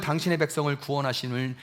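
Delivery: ordinary delivery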